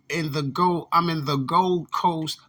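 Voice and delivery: slow, over-careful mock of an outsider's phrasing; mock proper speech. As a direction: spell it out slowly, like nobody local would say it. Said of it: "No one from Chicago talk like that".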